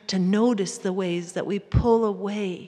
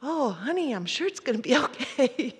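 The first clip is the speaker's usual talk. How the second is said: quick, raised, dismissive "it's fine"; brushing off; 3 semitones higher than usual. Retold or imitated. Wife waving off her husband's sadness, lightly dismissive. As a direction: pat him on the head and move on. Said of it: "I just wanna say".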